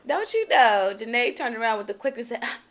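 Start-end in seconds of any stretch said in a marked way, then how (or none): 2.5-2.6 cold brush-off. Retold or imitated. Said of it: "she said it just like that".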